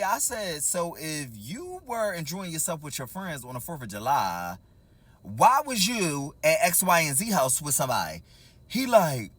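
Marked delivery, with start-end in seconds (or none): 0.6-8.2 slow, low, deliberate questioning; measured, accusing question; pointed confrontation. Retold or imitated. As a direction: draw out each word like a cross-examination.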